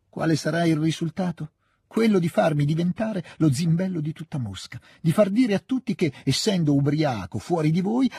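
sempre più alto e più forte, con rabbia crescente; infervorata, attacca senza fermarsi; alza la voce, si scalda. A narrator's reading. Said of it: "alzava la voce e si riscaldava". (alza la voce, sempre più accesa)

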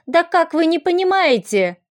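high-pitched, frenzied protest; desperate, hysterical appeal; frantic wail. A narrator's reading. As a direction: cry out as if nobody will listen. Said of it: "она продолжала неистово вопить".

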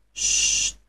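unvoiced hiss of sst; hushing. A narrator's reading. Little Klaus hushes the sack under the table. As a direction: hush the sack sharply. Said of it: "zei hij tegen de zak".

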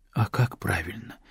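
a quiet, lost plea; helpless. Acted. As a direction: ask as if lost, softly. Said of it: "беспомощно спросила она".

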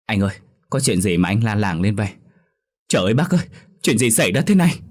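put-on alarm, rising in pitch; feigned panic. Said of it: "vẻ mặt giả bộ hốt hoảng". (giả bộ hốt hoảng)

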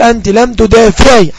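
slow, clear dictation of the example. Shown as a demonstration. Teacher giving students an example sentence, slowly. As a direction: dictate it word by word. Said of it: "أقول".

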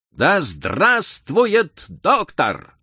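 slow, drawn-out cheer; crowd cheer. A narrator's reading. Crowd cheering for the doctor, drawn out. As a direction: chant it like a crowd. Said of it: "завопила толпа".

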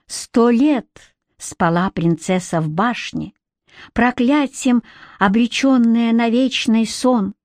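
slow, sing-song verse reading; poem recitation. A narrator's reading. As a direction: recite it like an old inscription.

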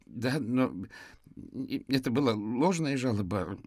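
a touch of fearful indignation; indignant, frightened trembling. A narrator's reading. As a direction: object haltingly, scared and indignant. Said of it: "дрожащим от возмущения и страха голосом".

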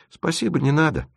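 с горькой усмешкой, без нажима; отмахнись с горечью; горькая усмешка. A narrator's reading. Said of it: "горько усмехнулся Лёлик". (горько усмехнувшись)

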